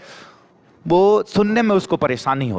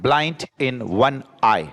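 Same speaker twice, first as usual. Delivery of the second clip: very slow model phrase; much slower than usual. Shown as a demonstration. Teacher repeating phrase very slowly.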